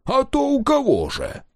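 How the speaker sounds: lightly voiced indignant husband; mocking retort. A narrator's reading. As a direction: fling it back as if it's obvious. Jealous husband answering.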